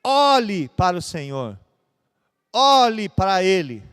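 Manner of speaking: loud, slow urging; slow forceful appeal; fervent command. Real, not acted. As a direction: press each word on the hearers. Preacher urging congregation.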